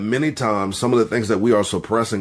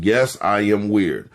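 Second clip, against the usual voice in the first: slow confession. Shown as a demonstration. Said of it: "say it with conviction".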